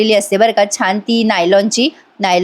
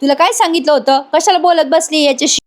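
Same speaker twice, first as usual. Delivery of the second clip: higher-pitched mock telling-off; irritated scolding; 4 semitones higher than usual. Aunt telling off Yash and her daughter, irritated. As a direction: scold as an annoyed aunt, mildly. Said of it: "आता चिडते ती आत्या".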